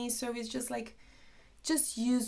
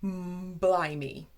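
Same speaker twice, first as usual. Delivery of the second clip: mock surprise; slower than usual. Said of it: "I was like".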